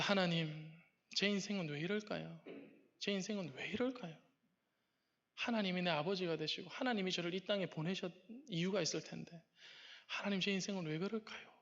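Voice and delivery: quiet, sorrowful questioning in a retold prayer; understated tearful prayer. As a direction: softly lament to God, mildly plaintive. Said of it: "눈물이 쭉 나더랍니다". (나직이 하소연하는 기도)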